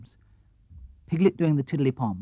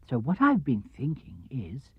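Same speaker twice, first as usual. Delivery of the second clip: whisper; 7 dB quieter, slower than usual. Acted. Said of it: "conspiratorial idea".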